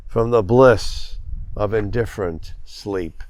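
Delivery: measured poem reading with deliberate line breaks; poetry reading. A narrator's reading. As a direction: read it as verse, pausing after each phrase. Reads own poem to audience.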